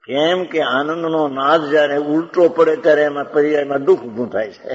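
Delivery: ordinary delivery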